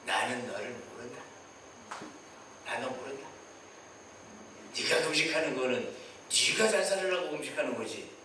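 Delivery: God coldly refusing to know them; God's refusal. Acted. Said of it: "시선을 안 주시는 거예요".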